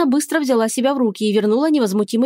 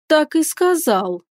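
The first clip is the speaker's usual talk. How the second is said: slow, stern question; queen sternly questioning; 6 semitones higher, much slower than usual. A narrator's reading. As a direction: demand it sternly. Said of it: "строго спросила царица".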